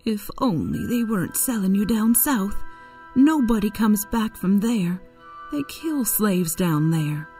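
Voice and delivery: crying lament. A narrator's reading. Aunt Chloe laments her husband being sold south, distressed. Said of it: "Aunt Chloe cried".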